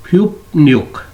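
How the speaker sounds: "ह्युप्न्युक" with n in place of r after p; रियल की जगह नियन. Shown as a demonstration. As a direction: say "ह्युप्न्युक" keeping p, then n. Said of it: "तो ये लफ्ज़ होगा". ("ह्युप्न्युक" में र की जगह न)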